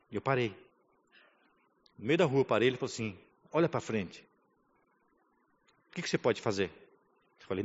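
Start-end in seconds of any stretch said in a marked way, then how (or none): 3.5-6.7 low, soft voice of God; gentle, wise voice. Retold or imitated. God questions a stranded son in the street, gently. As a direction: quote God softly, patiently guiding. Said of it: "com a sua voz mansa e sábia".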